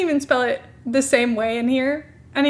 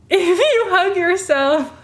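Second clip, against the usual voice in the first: giggling while rereading own comment; laughing mock reread; 5 semitones higher, 3 dB louder, slower than usual. Shown as a demonstration. Reading her old comment aloud, cringing with laughter. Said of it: "Why would I say that?".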